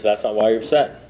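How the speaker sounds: low, even sponsor voice; calm contradiction. Retold or imitated. Sponsor holding firm with his upset sponsee, calm and low. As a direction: repeat it unbudging, pitched well down.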